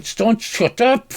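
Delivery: high, slow mock-angry rebuke; hammed-up fed-up brother; exasperated scolding. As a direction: drag out an impatient telling-off. Brother silences Stone.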